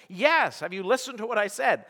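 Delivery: mildly exasperated insistence; insistent reply. Acted. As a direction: answer a doubter emphatically. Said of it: "do you really mean what you're saying".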